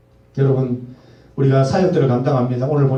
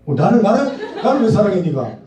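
laughing; 4 semitones higher than usual. Real, not acted. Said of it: "예".

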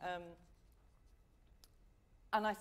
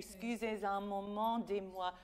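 lighter. Acted. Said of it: "that was so much better".

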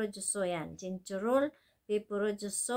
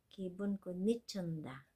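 fast rattled-off phrase; 7 dB quieter, faster than usual. Shown as a demonstration.

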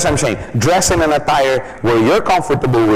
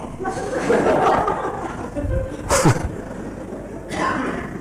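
wheezy laugh; 8 dB quieter than usual. Shown as a demonstration. Mock lost-voice laugh.

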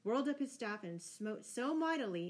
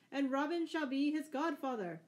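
high, loud call of approval; merry cry; 7 semitones higher, 5 dB louder than usual. A narrator's reading. Outlaws name Robin godfather at the feast, merry cry. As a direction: call it out for the whole laughing ring. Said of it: "cried the outlaws".

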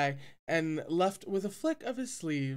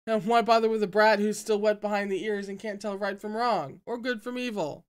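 louder, higher sneer at a brat; cold scorn; 5 semitones higher, 5 dB louder than usual. A narrator's reading. Sect leader sneering at the boy, scornful. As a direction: scoff at the child. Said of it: "He snorted coldly".

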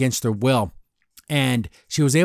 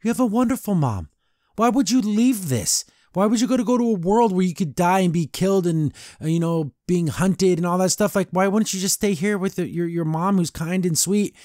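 higher, indignant questioning in V's voice; V reproaching Luce, mildly upset and higher; 6 semitones higher than usual. Retold or imitated. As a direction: scold Luce for leaving a kind mom. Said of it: "she's even upset with Luce".

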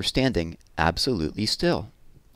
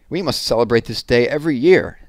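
eager proclamation; 3 semitones higher, 6 dB louder than usual. Acted. Elephant proclaims celebration.

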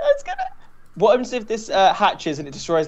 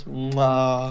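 cheesy kiss; 4 semitones lower, 4 dB quieter than usual. Pretend. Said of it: "I give him a little cheesy kiss".

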